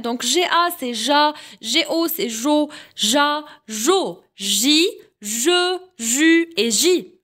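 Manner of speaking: chaque syllabe en « j » détachée avec soin; syllabes articulées. Shown as a demonstration. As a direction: montre la syllabe, puis une pause. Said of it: "Je répète". (syllabes en « j » dictées au professeur)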